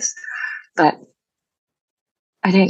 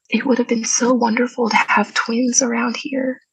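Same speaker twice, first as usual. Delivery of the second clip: quoting mother; 6 semitones higher than usual. Retold or imitated. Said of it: "She said".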